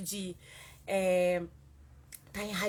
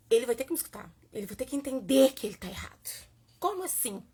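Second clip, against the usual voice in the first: indignant resolve; 3 semitones higher, 5 dB louder, faster than usual. Retold or imitated. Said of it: "pensei assim".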